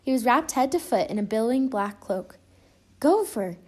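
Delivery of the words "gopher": startled exclamation. Acted. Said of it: "Pooh exclaimed".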